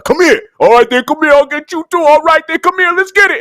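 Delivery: high, hyped-up mock taunt of a fired-up player; playful imitation of a player daring a coach; mock challenge. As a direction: call him out like you want the fight. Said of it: "He's like".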